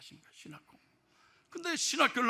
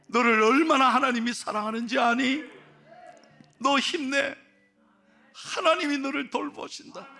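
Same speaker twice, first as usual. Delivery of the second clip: voice of God reassuring; 4 semitones higher than usual. Acted. God reassures his son.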